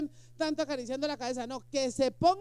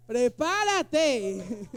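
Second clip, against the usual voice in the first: mock God warning; 6 dB louder, much slower than usual. Dios responde burlón.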